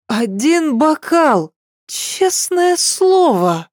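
put-on high, drawn-out drunk protest; tipsy pleading. Tipsy girl swears she's sober.

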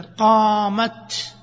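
"قامت" drawn out slowly with the final ت voiced; slow full reading. Shown as a demonstration. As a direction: read "قامت" slowly with a clear ت at the end. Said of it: "إذا وقفت تقول قامت".

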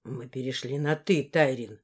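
low, gruff man's retort; low man's bark. Acted. Morris snaps at Tairin in a low voice. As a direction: drop low and snap it. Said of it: "рявкнул Моррис".

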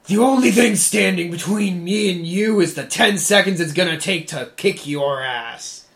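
loud threat yelled from afar; from another room. Acted. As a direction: bellow through an open door. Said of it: "hear me yell this next thing, 'cause it's loud".

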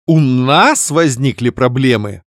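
slow indignant flare-up; flaring up. Acted. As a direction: flare at the word нас. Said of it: "вновь вспылила я". (вспылив)

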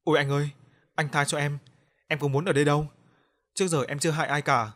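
a hint of a terrified little girl crying for mercy; scared pleading. Ghost girl begging the narrator to spare her, frightened pleading. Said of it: "Cô bé sợ hãi khóc lóc".

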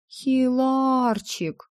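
high, long-drawn coaxing call; drawn-out, knowing singsong; meaningful drawl. A narrator's reading. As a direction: stretch the pet name out slowly and pointedly. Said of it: "многозначительно протянула я".

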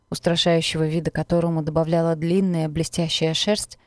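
ordinary delivery, nothing marked

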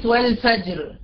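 والفجر ending on a still R; ra at a stop. Shown as a demonstration. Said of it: "عند الوقف".

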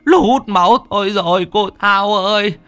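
frightened teacher begging his master for help, near tears; terrified, near tears. A narrator's reading. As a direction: wail to his master, on the verge of crying. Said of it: "sợ đến nỗi như là muốn khóc".

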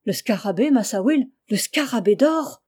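frightened cry. Acted. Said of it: "cria le nègre, reculant de frayeur".

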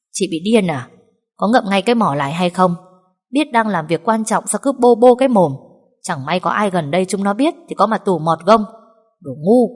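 loud harsh scolding. Acted. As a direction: shut her up with contempt. Mistress berates maid harshly.

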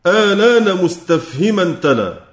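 slow chanted line of the poem; verse recitation. Shown as a demonstration. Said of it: "ثم قال الناظم". (إنشاد بطيء لبيت "آلان مستفهما تلا")

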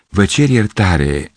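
slow, sheepish apology; embarrassed apology. Acted. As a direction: apologise awkwardly, drawing it out. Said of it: "adăugă stânjenit".

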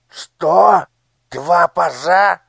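high, shrill startled squeak; the minister squeals in alarm. Acted. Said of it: "пропищал Нушрок". (испуганный писк)

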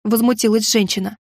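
usual speaking voice

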